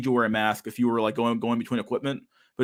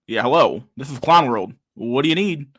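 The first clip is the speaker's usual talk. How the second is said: lightly voiced phone guy, a bit louder; Honkler voice; 5 dB louder than usual. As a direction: play the Clown World operator answering the phone. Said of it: "call for more Clown World".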